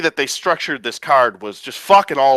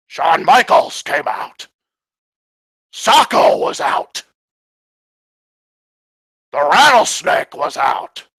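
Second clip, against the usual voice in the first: sarcastic hype; 3 dB louder, slower than usual. Real, not acted. Mocking hype of returning stars.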